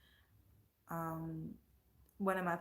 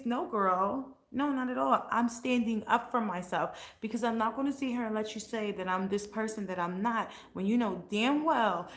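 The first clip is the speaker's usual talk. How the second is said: louder, fired-up pushback; heated rant; 2 semitones higher, 4 dB louder than usual. Real, not acted. Ranting at the old friend who accused her, fired up. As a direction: push back hard, standing your ground.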